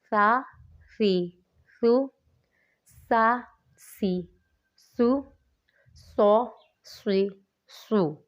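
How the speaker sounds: سا without whistle, س whistled, ص heavy and whistled; ث س ص contrast. Shown as a demonstration. Teacher drilling ث س ص for students, careful contrast. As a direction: hiss the س, round out the ص. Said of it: "سین میں ہم لوگوں نے سیٹی کی آواز نکالنی ہے".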